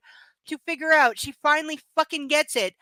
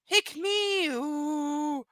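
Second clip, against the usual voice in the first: toy alien; 3 dB quieter, much slower than usual. Retold or imitated. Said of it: "They're like the aliens in the claw machine".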